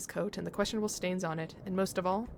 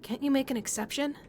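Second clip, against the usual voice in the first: put-on shy boy pleading; 5 semitones higher than usual. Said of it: "The boy shyly pleads".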